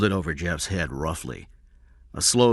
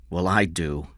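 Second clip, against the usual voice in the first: ordinary delivery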